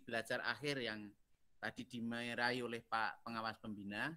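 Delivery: faint, trailing away from the mic; very soft, hard to hear; barely audible. Real, not acted. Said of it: "Duh, kecil banget".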